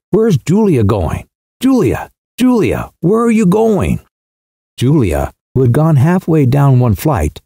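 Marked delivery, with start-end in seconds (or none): 0.1-4.0 higher and higher, calling down the stairs, testy; a touch of irritation as she calls after her sister. A narrator's reading. Aunt calling after her wandering sister, testy and rising. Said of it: "she said almost testily".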